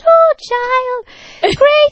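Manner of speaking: high, loud mock Irish priest; effusive Irish father blessing a parishioner; imitated Irish priest. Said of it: "He said".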